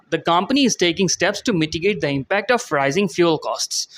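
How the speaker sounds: reading the definition aloud, very slowly. Shown as a demonstration. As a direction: spell the meaning out word by word for learners. Reads example sentence slowly.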